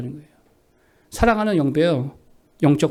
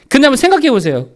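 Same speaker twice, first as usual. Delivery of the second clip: forceful preaching; 4 semitones higher, 5 dB louder than usual. Real, not acted. Preaches the idle bee example.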